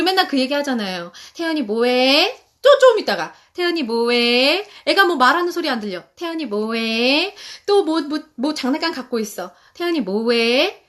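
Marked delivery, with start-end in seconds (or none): 1.3-2.4 put-on asking a child. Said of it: "이런 많이 물어보잖아요". 3.5-4.7 put-on asking a child. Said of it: "이런 많이 물어보잖아요". 6.2-7.3 put-on asking a child. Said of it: "이런 많이 물어보잖아요". 9.7-10.8 put-on asking a child. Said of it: "이런 많이 물어보잖아요".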